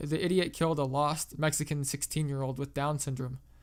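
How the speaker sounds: usual speaking voice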